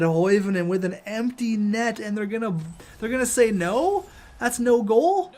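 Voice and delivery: no-way-that's-no-goal outrage; outraged disbelief. Real, not acted. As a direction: argue the call in disbelief.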